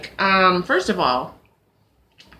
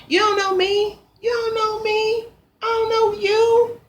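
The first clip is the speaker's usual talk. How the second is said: upset retort; 13 semitones higher than usual. Retold or imitated. Voicing her own retort.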